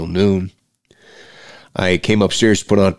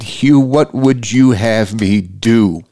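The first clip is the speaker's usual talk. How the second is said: slow, pleading, only mildly raised; retold yell at friend; 3 semitones higher, much slower than usual. Man calling out to his dead friend, slow mild yell. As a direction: retell an anguished appeal, stretching the words. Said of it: "so I yelled at my buddy".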